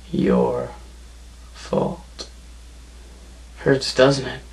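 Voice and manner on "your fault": each word whispered, slow and cold; accusing whisper. Acted. Wrestler blaming Painkiller for Malice's injury, cold whisper. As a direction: lean in and breathe the blame.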